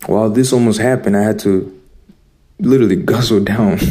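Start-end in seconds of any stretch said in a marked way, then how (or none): 2.6-3.8 breaking into a chuckle; laughing. Real, not acted. Looking back on a comical memory, laughing. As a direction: let a laugh slip out at the end. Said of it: "I'm laughing now because".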